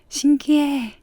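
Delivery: slow, high, loud amazement; amazed. Real, not acted. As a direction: gasp it out in wonder. Amazed at her own corrected face.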